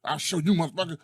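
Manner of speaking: mildly annoyed mock threat; mock tough-guy threat; annoyed cop. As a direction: imitate an irritated cop, pitched a little up. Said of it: "you can see he's annoyed".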